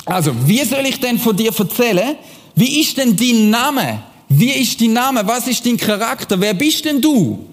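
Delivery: a hint of Moses earnestly questioning. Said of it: "Mose fragt ihn".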